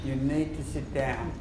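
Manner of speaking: slow with need stressed; slow demand. Shown as a demonstration. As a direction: press on need, calmly. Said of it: "Notice what you said".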